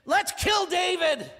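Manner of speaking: mild mock complaint rising to let's kill David; mutinous soldiers. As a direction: voice the angry men turning on David. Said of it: "these guys are like".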